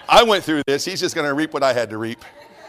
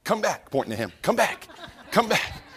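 lightly voiced girls calling out, higher; 6 semitones higher, 6 dB quieter than usual. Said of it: "all three of those girls stand up and go".

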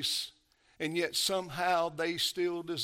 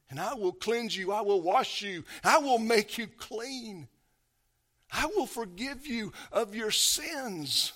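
tender promise; 6 semitones higher, 3 dB louder than usual. Acted. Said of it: "all they've ever heard from him is".

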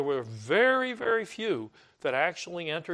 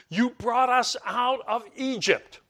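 higher, louder accusing gripe; mock complaining; 8 semitones higher, 4 dB louder than usual. Israelites accusing Moses, mock whiny complaint. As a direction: throw the blame at him, whining. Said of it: "they complain to, to Moses".

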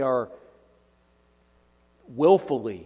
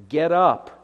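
a sharp, louder divine rebuke; stern command; 3 semitones higher, 8 dB louder than usual. Acted. The Lord telling the praying Joshua, loud stern command. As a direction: order him up off the floor.

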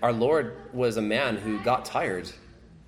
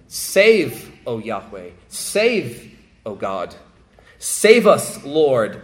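pleading cry; 6 dB louder, much slower than usual. Acted. Voicing psalm prayers for rescue.

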